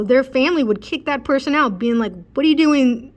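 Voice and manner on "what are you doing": higher, louder imitated reproach; mock indignant scolding. Family kicking out a yelling relative, mock indignant. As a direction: challenge them in mock indignation.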